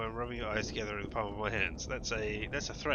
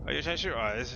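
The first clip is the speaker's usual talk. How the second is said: menacing; 4 semitones higher, 7 dB louder than usual. Acted. Reading menacing character line.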